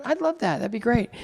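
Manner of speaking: over-polite fan greeting; mock eager reply. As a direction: play up the delight at meeting the wife.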